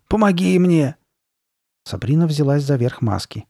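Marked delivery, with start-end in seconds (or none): 0.1-0.9 high, loud demand for help; louder, raised-pitch impatient plea. A narrator's reading. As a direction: urge her to help, impatiently. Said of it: "нетерпеливо проговорила она".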